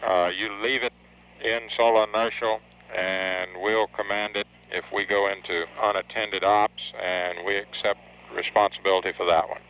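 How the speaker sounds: radio-filtered voice; astronaut radio. Real, not acted. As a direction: read it over a mission radio link. Capcom talking over radio link.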